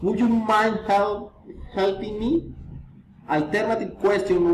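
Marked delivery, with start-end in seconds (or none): 0.0-2.6 polite request lifting on "me"; rising intonation. Shown as a demonstration. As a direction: let "me" rise at the end. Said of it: "reason, intonation".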